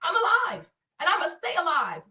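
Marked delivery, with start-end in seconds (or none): none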